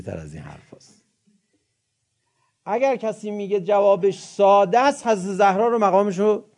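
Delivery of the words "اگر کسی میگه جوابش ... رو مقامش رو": impassioned preaching. Real, not acted.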